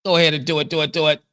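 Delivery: loud, egging him on; loud taunting. Real, not acted. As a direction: dare him, loud and pushy. Daring him to speak.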